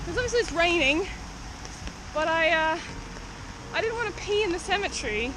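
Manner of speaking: breathless and panting; winded, talking between breaths. Real, not acted. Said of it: "I'm out of breath".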